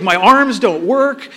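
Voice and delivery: high, loud, slow panicked cry of a helpless new father; panicked new dad. Retold or imitated. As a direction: sell the helplessness of arms that won't work. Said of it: "I was like".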